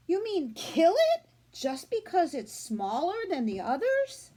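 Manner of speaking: put-on high, loud girlish protest climbing at the end; a girl protesting to her mother; upset girl. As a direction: protest like a horrified little girl.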